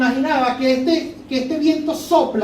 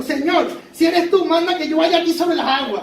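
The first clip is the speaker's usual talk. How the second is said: higher, eager plea; eager Pedro; 5 semitones higher than usual. Acted. Pedro to the Lord, asking to walk on water: eager and thrilled.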